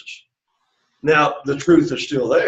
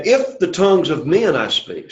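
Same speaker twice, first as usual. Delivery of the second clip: "if" set out firmly at the start; emphasis on if; 3 semitones higher than usual. Shown as a demonstration. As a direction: lean on "if", then read on. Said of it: "you hear the emphasis here".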